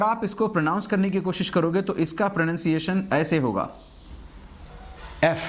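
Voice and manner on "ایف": "ایف" as eff, without a y; correct pronunciation. Shown as a demonstration. Teacher showing learners how to say F, correct pronunciation. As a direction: start "ایف" straight on the short e. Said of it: "ایسے بولنا ہے آپ کو".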